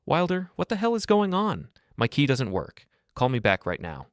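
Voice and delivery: wife shouting into the phone at her husband, furious. Acted. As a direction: rage at being locked out.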